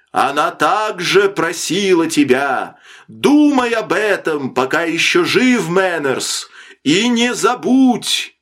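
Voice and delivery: high, forceful calling over distance; shouted reproach. A narrator's reading. Sailor shouts after the doomed man across the wind, shouted reproach. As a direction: call it out so no word is lost. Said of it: "Лонгрен крикнул".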